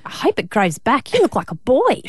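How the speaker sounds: lightly voiced lisping child; lisping little girl. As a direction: imitate a blunt little daughter with a lisp. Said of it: "with her little lisp".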